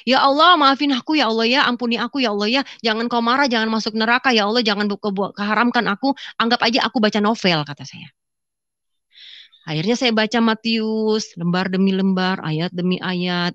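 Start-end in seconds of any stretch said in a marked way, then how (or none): 0.0-7.6 rapid run of apologies; pleading prayer. Retold or imitated. Woman begs Allah's pardon before reading, pleading. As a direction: beg forgiveness in one unbroken stream. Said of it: "saya minta ampun sama Allah".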